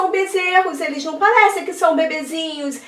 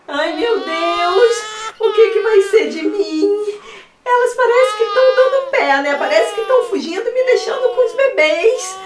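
mock crying; 3 semitones higher than usual. Overwhelmed pretend mom whimpering.

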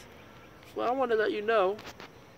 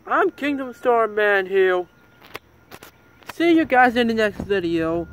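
excited; 3 semitones higher, 5 dB louder than usual. Real, not acted. Loud channel outro.

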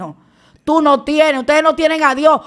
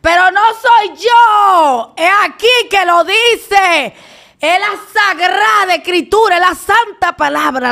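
emphatic protest; 5 semitones higher, slower than usual. Real, not acted. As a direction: plead her case hard. Defending herself, raised voice.

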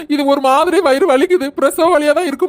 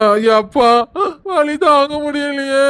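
a hammed-up cry of pain; wailing in pain; much slower than usual. Pregnant wife wails to the family about her pain, slow and tearful.

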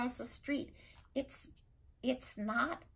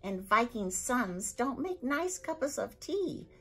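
raging Viking; 6 semitones higher, 4 dB louder than usual. Acted. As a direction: hammer each rule home. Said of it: "spitting with rage now".

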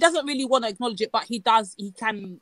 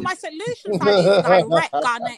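put-on Bajan accent. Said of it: "what accent are you bringing".

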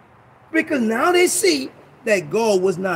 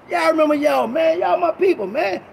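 happy shout; 6 semitones higher than usual. Retold or imitated. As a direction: call back warmly over the noise. Pastor greeting friends loudly.

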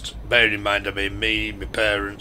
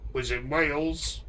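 put-on slow, higher sing-song Welsh accent; 5 semitones higher, 4 dB quieter than usual. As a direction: attempt a lilting Welsh accent, rising at the end. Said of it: "I can't do a Welsh boyo accent".

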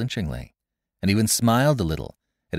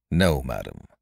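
vehement; 7 semitones lower than usual. A narrator's reading. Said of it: "he said at last, vehemently".

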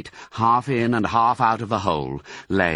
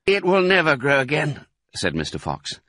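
higher-pitched mournful reply; glum father fox; 7 semitones higher than usual. A narrator's reading. Father answering his child about the tail, glum. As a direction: lament it, pitched up. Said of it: "He looked very glum".

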